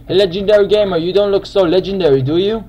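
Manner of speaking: mocking taunt. Real, not acted. Taunts another player.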